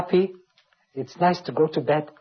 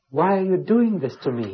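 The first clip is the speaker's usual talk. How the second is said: pleading; 4 semitones higher than usual. Acted. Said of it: "he's asking God".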